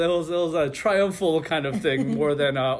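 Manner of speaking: ordinary talk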